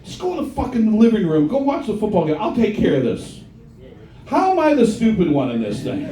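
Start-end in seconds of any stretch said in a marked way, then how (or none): 0.0-3.4 nagging ex-wife. Retold or imitated. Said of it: "my ex-wife, she's like".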